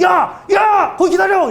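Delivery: high, loud shout after someone leaving; shouted yell. Retold or imitated. Cult member shouting after the pastor at the elevator, loud yell. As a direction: yell at him to stop and wait. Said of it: "이러더라고요".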